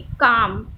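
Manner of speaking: काम said with a pressed, heavy stress; stressed word. Shown as a demonstration. Teacher shows students the stress in काम. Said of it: "stress feel हो रहा है बोलने में".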